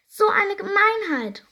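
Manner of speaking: high, loud, slow outraged cry; angry outcry. A narrator's reading. Fairy sees her stolen dress, high angry outcry. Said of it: "ruft sie wütend".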